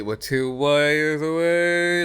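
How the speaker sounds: high, strained alien voice. Acted. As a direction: try for a squeaky alien. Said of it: "can't do the alien voice".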